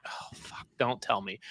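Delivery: very soft, whispered groan to oneself; hushed retold dread. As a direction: mutter it under your breath, dreading what comes. Waking at midnight, retold dread.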